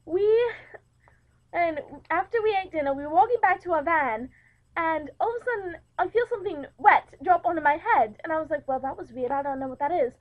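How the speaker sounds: storytelling in a put-on English accent. Host telling her anecdote of a work trip, put-on English accent. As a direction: recount it in a light English accent. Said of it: "if I start talking in an English accent also".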